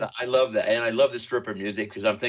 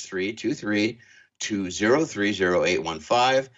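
slow, careful number read-out; slow dictation; 4 semitones lower, slower than usual. Shown as a demonstration. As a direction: spell out each digit slowly. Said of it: "write it down".

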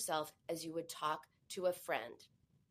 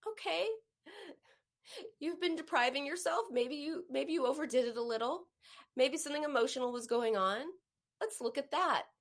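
kind to a friend; 5 semitones higher than usual. Retold or imitated. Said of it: "What would you say to your friend".

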